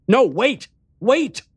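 high, loud desperate plea; crying out. A narrator's reading. Narrator begging the vanishing man to stay, crying out. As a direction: call out urgently, voice leaping up. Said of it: "I cried out".

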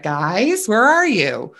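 perplexed call with pitch jumping on "where"; voice going up. Retold or imitated. Husband searching for the two friends, voice going up, perplexed. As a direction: call out, puzzled, voice climbing. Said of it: "his voice, like, goes up".

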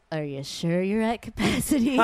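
a mildly creepy bouncer checking again; creepy doorman. Retold or imitated. Bouncer at a speakeasy door, mildly creepy tone. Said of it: "that was so creepy".

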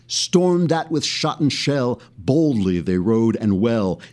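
rhythmic, declaimed, galloping verse; stirring recital of a war poem; poem recitation. Shown as a demonstration. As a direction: let the hooves drum through the lines. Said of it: "the rhythm of the words gives you those horses' hooves".

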